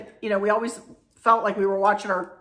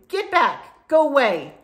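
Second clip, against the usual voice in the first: high, emphatic shooing; playful stern dismissal, pitched up; mock banishing; 5 semitones higher, 4 dB louder, slower than usual. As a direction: send the naysayers packing. Shooing off her negative critics.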